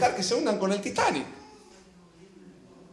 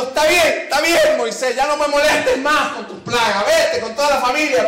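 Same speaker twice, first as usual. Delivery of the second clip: exasperated Pharaoh; 4 semitones higher than usual. Acted. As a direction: throw up your hands as a fed-up king. Preacher voicing exasperated Pharaoh.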